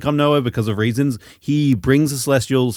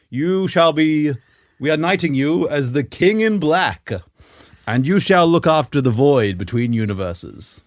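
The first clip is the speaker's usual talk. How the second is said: mock solemn decree. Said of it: "So they're like".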